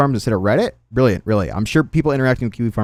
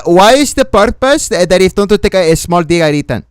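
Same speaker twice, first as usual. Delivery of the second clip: put-on Latina accent; 4 semitones higher than usual. Streamer reading out posts in a put-on Latina accent. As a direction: read it in a mock Latina accent. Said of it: "read every single thing in the Latina accent".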